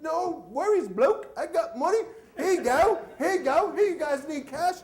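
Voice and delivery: bad Irish accent. Irish cousin offering cash to customs, bad Irish accent. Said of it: "I don't do a good Irish accent".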